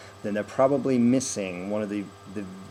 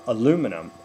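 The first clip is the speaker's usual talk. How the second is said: "aluminum" with a weak "uh", strong "LU"; unstressed first syllable; 4 dB louder than usual. Shown as a demonstration. Coach proving the vowel rule, unstressed "uh" opening "aluminum". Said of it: "if it's non-stressed, it's gonna be uh".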